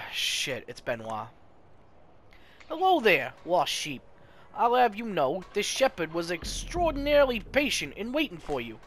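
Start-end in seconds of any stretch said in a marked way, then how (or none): 2.7-8.8 lightly voiced unctuous priest, a touch higher; oily shepherd greeting a lost sheep; smooth preacher priest. Playing the priest Benoit.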